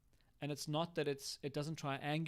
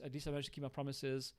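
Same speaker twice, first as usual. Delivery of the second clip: hurt parent; 4 dB quieter, faster than usual. Shown as a demonstration. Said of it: "Sorry, parent response".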